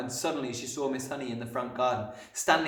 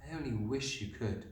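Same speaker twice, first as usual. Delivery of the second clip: soft, gentle regret; quiet, sympathetic sigh of a line; tender regretful teacher; 5 dB quieter than usual. A narrator's reading. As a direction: let the child down kindly. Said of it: "Miss Honey said".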